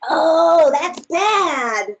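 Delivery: alarmed oh. Acted. Woke a daddy lion.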